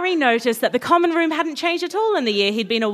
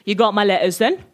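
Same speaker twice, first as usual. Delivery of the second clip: put-on South London accent; 4 semitones lower than usual. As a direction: lower South London voice, rising question. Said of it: "He's from South London".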